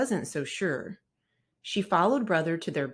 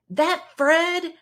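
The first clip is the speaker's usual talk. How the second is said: high, louder angry cub snarl; growled; 11 semitones higher, 8 dB louder than usual. Acted. Brother angry that Fred took his bike, growling. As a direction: spit the name out in anger. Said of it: "growled brother".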